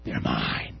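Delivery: very low, dark whisper of the devil; menacing Lucifer. Acted. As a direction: growl it low into his face. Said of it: "Lucifer himself was in his face".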